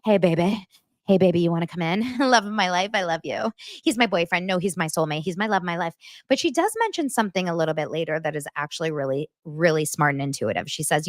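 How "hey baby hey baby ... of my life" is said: lightly voiced giddy girlfriend; lovestruck schoolgirl. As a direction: imitate a schoolgirl cooing over her boyfriend. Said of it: "she is like a little schoolgirl".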